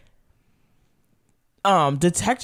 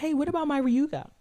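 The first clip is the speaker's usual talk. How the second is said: fangirl voice; 10 semitones higher, 7 dB quieter than usual. Retold or imitated. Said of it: "she's like".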